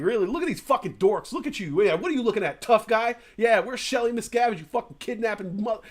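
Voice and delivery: jeering taunts thrown at a crowd, imitated; mock heckling rant. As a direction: heckler taunting Scientology members on the sidewalk, mock jeer. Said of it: "and just, like, going off".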